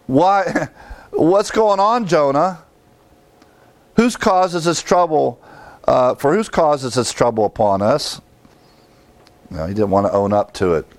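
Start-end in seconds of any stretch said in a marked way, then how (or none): 0.1-8.2 high, urgent questions; questioning sailors. Retold or imitated. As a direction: press him with raised voice.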